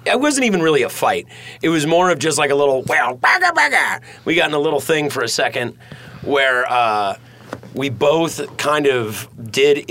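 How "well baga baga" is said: nonsense squabble noise, pitch jumping up; mock bickering gibberish. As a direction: imitate a petty spat in babble. Imitating a little squabble.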